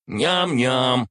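smirking creature voice; smirking spider. Acted. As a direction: smirk through a greedy munching sound. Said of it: "заявил штопор, ухмыляясь".

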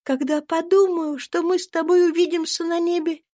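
put-on gentle little girl blessing her friends; tender cry of a dying girl. A narrator's reading. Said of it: "вскричала она нежно".

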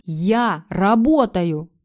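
loud, very slow bellow; yelling. A narrator's reading. Husband yelling at his wife, loud bellow. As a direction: roar it out. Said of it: "заорал он".

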